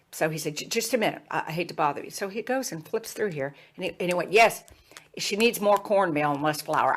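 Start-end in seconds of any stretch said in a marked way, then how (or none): 0.6-2.1 polite Southern man, imitated; Southern accent. Student asks her for a minute, Southern accent. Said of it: "he had this Southern accent". 4.3-6.9 put-on Jim Hickson, Southern accent. Student finds the recipe fix for mama, Southern accent. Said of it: "he had this Southern accent".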